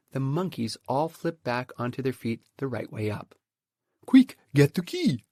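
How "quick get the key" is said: urgent loud call to the bird; monkey dad calling out urgently. Acted. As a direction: shout it up to the roof. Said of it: "called out".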